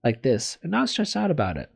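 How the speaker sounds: measured visual novel read-aloud; story narration. Acted. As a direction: read it out as a first-person story. Reads visual novel text.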